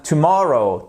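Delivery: "tomorrow" stressed on its middle syllable; teacher's model "tomorrow", accent on syllable two; stress on second syllable. Shown as a demonstration. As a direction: punch the MOR of "tomorrow", then fall. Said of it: "deuxième syllabe".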